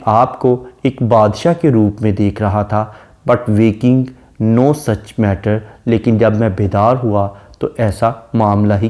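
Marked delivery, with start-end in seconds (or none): 3.3-5.6 each word drawn out slowly; slow poem recitation. Shown as a demonstration. Teacher reads a sonnet line to the class, slow and solemn.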